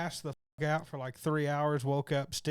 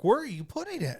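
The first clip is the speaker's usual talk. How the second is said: mock panic; 9 semitones higher, 5 dB louder than usual. Retelling fear of a shot.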